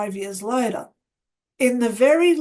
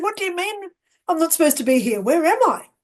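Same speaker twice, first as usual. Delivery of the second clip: higher, quick indignant questions; bewildered retort; 5 semitones higher, 3 dB louder, much faster than usual. Retold or imitated. Newcomer answering the angry woman, bewildered. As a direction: imitate being baffled and challenged.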